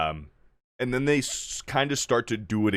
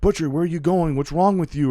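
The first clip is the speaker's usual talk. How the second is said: put-on pleading kid voice; 7 semitones higher, faster than usual. Ryan pleads with Butcher.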